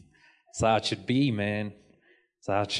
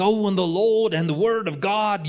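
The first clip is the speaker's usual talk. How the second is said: excited preacher; 4 semitones higher than usual. Retold or imitated. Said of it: "he gets excited".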